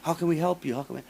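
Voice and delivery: high, fawning mock sympathy; mock appeasing. Mocking the band members fawning over the singer, high and gushing. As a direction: gush over her like a suck-up. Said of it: "trying to appease to her".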